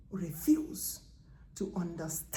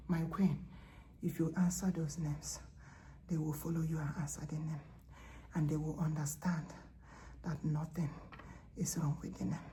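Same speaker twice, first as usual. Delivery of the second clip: soft voice of God; 2 semitones lower, 6 dB quieter than usual. Acted. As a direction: let God confide in his queen, softly.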